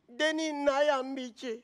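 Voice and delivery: slow, quoted Bambara words; Bambara phrase. Retold or imitated. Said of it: "En Bambara".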